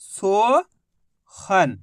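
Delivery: सोहन stretched very slowly into one long word; drawn out blend. Shown as a demonstration. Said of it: "तो मिलके बन गया".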